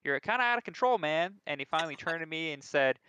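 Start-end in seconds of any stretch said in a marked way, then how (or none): 0.0-1.4 mock taunt. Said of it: "walked right next to him and said".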